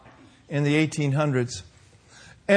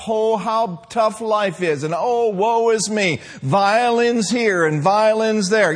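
mock self-pity; 4 semitones higher, slower than usual. Mocking Christians pitying themselves.

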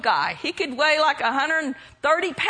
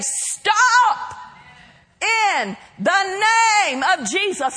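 high, loud command with hand raised; commanding stop; 3 semitones higher, 4 dB louder, slower than usual. Shown as a demonstration. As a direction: order it to stop, loud and firm. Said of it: "Hold up your hand and say".

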